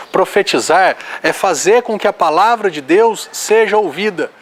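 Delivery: ordinary delivery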